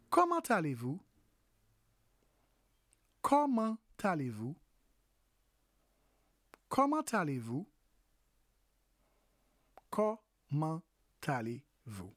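"comment allez-vous?" repeated with a rise on "comment"; French demo. Shown as a demonstration. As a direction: model the French phrase for learners. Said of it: "In French".

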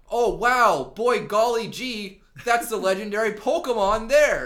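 put-on high, loud gee-whiz kid voice; wholesome 1950s kid. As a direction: overeager golly-gee schoolboy. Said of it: "and they're like".

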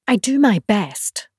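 a touch of wounded pride; sulky. Acted. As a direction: protest it with a light sulk. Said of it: "in a sulky tone".

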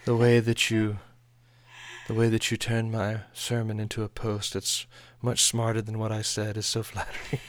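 lightly hammed-up British gentleman accent; Mr Darcy accent. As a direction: play at a British period-drama suitor. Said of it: "He's talking like Darcy from Pride and Prejudice".

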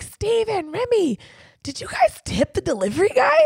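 high yelled call down the stairs; calling down to the guys about the tip; calling downstairs. Retold or imitated. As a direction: shout down to them upstairs. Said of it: "I screamed down".

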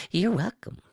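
reply in a high creature voice; high-pitched reptile. A narrator's reading. Quiss answers Woe's curse, high-pitched.

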